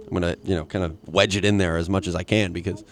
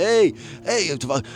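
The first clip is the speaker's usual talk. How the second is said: crude mobster impression, pitched up; rough Tony Soprano; 4 semitones higher than usual. Comic as mobster cursing out Christopher, crude impression. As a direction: do a hammy, unrefined Italian-American gangster. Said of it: "my Tony Soprano is not refined".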